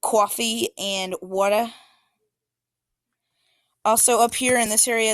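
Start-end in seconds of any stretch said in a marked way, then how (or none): 0.0-1.7 New York accent. Shown as a demonstration. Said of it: "they say".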